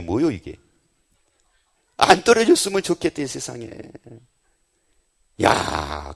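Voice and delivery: ordinary delivery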